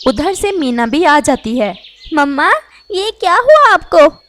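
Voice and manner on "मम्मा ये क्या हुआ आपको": high, loud shocked cry; alarmed. Acted. Meena finds her wounded mother, crying out in alarm. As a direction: gasp it out in alarm.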